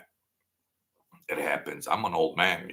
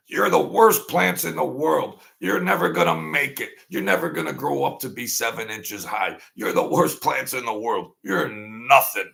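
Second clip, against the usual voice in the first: mock berating; 5 semitones higher than usual. Man insulting plants in the other room, mock scolding. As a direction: scold the plants like a mean parent. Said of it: "in the other room".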